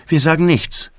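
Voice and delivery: put-on high child's voice, insisting; high, urgent child; insistent little boy. A narrator's reading. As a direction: say it like a small boy laying down a rule. Boy demands secrecy from his father.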